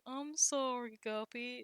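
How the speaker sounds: soft, meek apology; Boulder. Acted. Boulder apologizes while being berated, meek and soft. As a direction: trail off quietly on the apology. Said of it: "Boulder being like".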